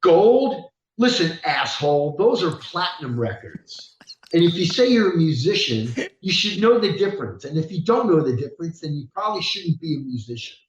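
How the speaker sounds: retold scolding from an insulted star; a rock star. Rock star correcting an admiring mover, retold indignant scolding. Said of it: "the rock star back up and he goes".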